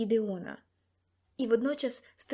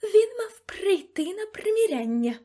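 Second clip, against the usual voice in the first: loud, high, slow menacing question; indignant madam's threatening voice; menacing demand; 10 semitones higher, 6 dB louder than usual. A narrator's reading. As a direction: demand it imperiously, drawn out. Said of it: "грізно запитала мадам Россіні".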